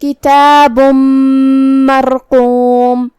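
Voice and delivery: کتاب مرقوم with the tanween merged into the م, nasal and doubled; idgham with ghunna. Shown as a demonstration. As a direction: blend کتاب into مرقوم with a held hum. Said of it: "غنہ اور تشدید کے ساتھ".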